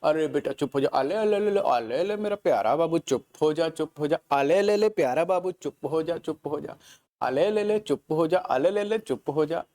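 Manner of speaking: put-on cooing baby talk to hush a crying child; soothing a baby. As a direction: coo अले, अले like calming a baby. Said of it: "चुप कराने के लिए कैसे बोलते हैं".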